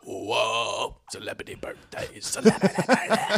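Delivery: babbled eerie jingle, mostly hushed; a strange whispered chant of the segment name; weird babble. Acted. Doing the segment jingle for listeners as weird babble. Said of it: "Shannon's losing her shit".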